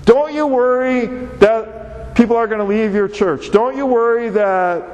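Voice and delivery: mock the fretful asking, rattled off; imitating worried churchgoers. Pastor mimics people asking if church will empty, mock-worried. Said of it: "They just say".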